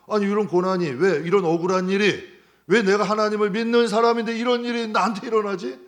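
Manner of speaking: loud, rising indignant complaint; a believer protesting his unfair suffering; grumbling at God. Retold or imitated. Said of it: "하면서 다 불평이나 원망이 올라올". (억울함을 토로하는 큰 목소리)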